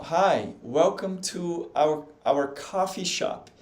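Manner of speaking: slow, careful English practice; practice reading. Shown as a demonstration. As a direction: read it out slowly, word by word. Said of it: "praticar, ó". (leitura lenta de treino em inglês)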